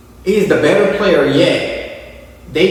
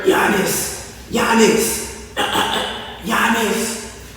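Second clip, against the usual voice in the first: softer, breathy mock call of the name; muffled Doc Rivers; 4 semitones higher, 5 dB quieter, much slower than usual. Mocking Doc Rivers calling his player, soft and muffled. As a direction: imitate a coach nobody can hear. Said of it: "Can't nobody hear him".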